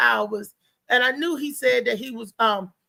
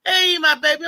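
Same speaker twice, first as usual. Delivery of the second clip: sing-song higher, louder greeting; mock-sweet brother calling out; playful loud hey my baby; 4 semitones higher, 5 dB louder than usual. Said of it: "he was like".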